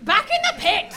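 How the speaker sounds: loud, high laughing command; shouted order. Acted. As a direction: bark him back into the pit. Leader banishes the king.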